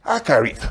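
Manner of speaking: "Acharith" said on its own, falling at the end; pronunciation demo. Shown as a demonstration. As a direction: model the Hebrew word "Acharith" for the class.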